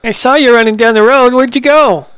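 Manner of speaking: high-pitched morphed voice; squirrel voice. Acted. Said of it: "talk in this squirrel voice".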